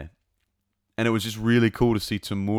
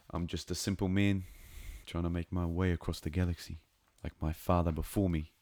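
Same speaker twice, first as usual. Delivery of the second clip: softer, imitated Kiwi accent; 6 dB quieter than usual. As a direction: quote it in a lightly put-on Kiwi accent. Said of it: "My accent's pretty close to a Kiwi accent".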